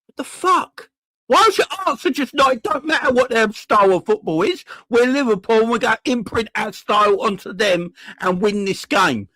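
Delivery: exasperated outburst. Real, not acted. Angry fan ranting at manager.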